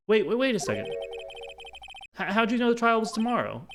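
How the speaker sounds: high, loud, stammering alarm; startled protest. Acted. Visitor challenging lawyer about the trial, startled. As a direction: cut in, taken aback.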